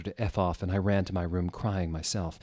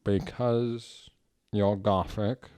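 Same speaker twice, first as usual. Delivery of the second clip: little afraid voice; much slower than usual. Acted. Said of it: "in a little afraid voice".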